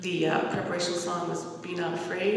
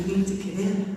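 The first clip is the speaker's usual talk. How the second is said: laughing through the line, louder; retelling the voice while laughing; 6 dB louder than usual. Retold or imitated. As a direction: giggles as she quotes the voice.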